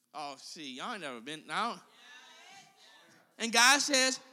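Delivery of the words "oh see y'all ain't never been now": much softer teasing aside; quiet aside. Real, not acted. Preacher teasing the congregation, much softer. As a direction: drop it low to the crowd.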